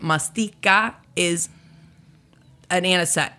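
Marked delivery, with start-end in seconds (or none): 0.0-1.5 "Mastika" said slowly, plain pitch; slow contrast. Shown as a demonstration. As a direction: set "Mastika" apart, slow and level. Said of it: "two very distinct things".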